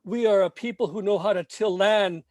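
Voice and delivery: measured, emphatic spoken-word reading; poem recitation. Acted. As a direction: declaim each line like a protest poem.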